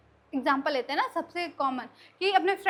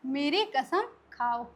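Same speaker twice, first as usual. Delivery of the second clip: slow, deliberate meaning; slower than usual. Shown as a demonstration. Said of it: "इसका क्या मतलब होता है".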